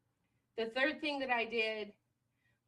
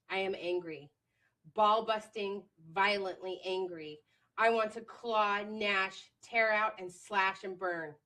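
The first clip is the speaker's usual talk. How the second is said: dramatic angry reading. Retold or imitated. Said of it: "it went something like this".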